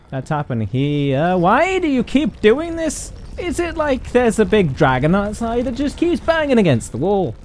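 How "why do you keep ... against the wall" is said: cope with the creepy noise in a funny voice; weird stress voice. Acted. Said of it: "saying this in a weird voice".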